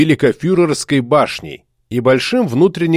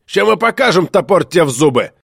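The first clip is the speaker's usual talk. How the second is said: threatening shout; 4 semitones higher than usual. Acted. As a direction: bark the threat.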